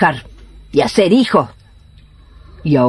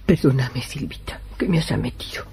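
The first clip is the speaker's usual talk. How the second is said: soft, dropping to a whisper; whispered apology; 3 semitones lower, 8 dB quieter than usual. Acted. Healer apologizing to Silvita, whispered aside. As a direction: confide it quietly to her.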